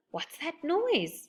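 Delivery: high, slow, startled question; alarmed girl hearing a noise; sudden alarm. A narrator's reading. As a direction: stop everyone with a sudden sound. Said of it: "said Goldilocks suddenly".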